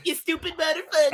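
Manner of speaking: sling the insult in a mock southern accent; jokey southern accent jab at a friend. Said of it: "with your southern accent".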